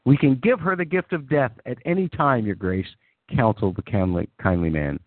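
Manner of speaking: storyteller reading fan fiction; story narration. A narrator's reading. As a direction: narrate it like a fantasy tale. Reads fan fiction aloud.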